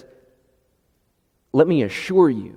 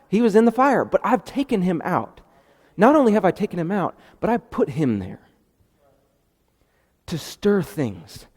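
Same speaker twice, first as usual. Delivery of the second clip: exasperated God; 5 semitones higher than usual. Acted. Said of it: "It's like, duh".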